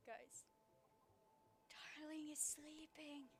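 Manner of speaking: quiet hush so the dog stays asleep. Real, not acted. Hushing the viewers while her dog sleeps, softly.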